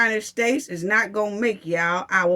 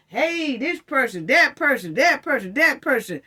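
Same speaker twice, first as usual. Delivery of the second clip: higher, eager campaign pitch; hammed-up celebrity hype, higher; mocking celebrities; 4 semitones higher than usual. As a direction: play a pushy celebrity endorser. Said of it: "when they come to talking about".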